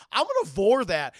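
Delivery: monster threat. Retold or imitated. Hentai virus spots its prey.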